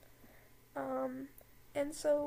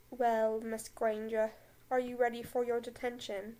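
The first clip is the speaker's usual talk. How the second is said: Snape voice; 2 semitones lower, 4 dB louder than usual. Acted. Snape addressing Hermione.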